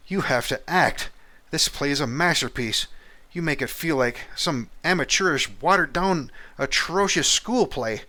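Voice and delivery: high, loud theatrical despair over the acting; exasperated director. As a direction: play the fussy director who feels sick at bad acting. Director scolding the actor.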